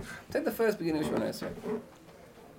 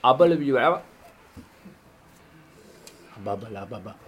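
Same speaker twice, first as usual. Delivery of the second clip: mock gibberish; 2 semitones lower, 7 dB louder than usual. Shown as a demonstration. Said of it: "So you say".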